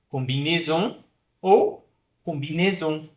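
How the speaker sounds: combinaison twice, contrasting the middle vowel; closed versus open E. Shown as a demonstration. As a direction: slowly set both readings of combinaison apart. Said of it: "prefiro pronunciar mais aberto".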